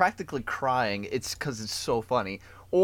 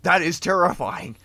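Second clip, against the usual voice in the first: rising, louder, laughing mock indignation; mock outrage; 5 semitones higher, 11 dB louder than usual. Mocking the horror movie, getting louder and laughing. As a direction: pretend to be shocked at the wrong thing. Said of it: "And I'm like".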